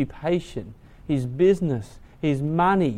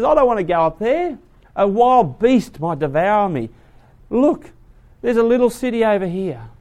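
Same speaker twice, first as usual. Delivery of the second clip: pleading Lot; 3 semitones higher than usual. Acted.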